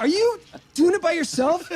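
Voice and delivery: high, loud mock shock; squeaky incredulous husband voice; mock surprised husband. Husband catching his wife gaming alone, mock shocked and high.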